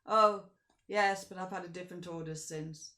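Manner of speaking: offhand coachman, a loud first word; coach driver. Acted. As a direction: shrug off the Count. Coach driver answers the Count.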